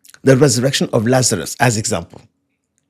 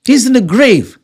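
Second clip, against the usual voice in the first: high-pitched, emphatic disbelief; incredulous protest; 10 semitones higher, 4 dB louder than usual. Retold or imitated. Someone objecting to Jesus about the dead man, incredulous. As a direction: protest it high, hitting each fact.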